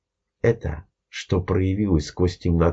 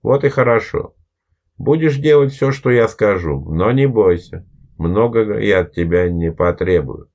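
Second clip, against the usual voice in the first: commanding shadow man; 4 dB louder than usual. Acted. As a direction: lay down the rules with authority. Shadow man gives orders.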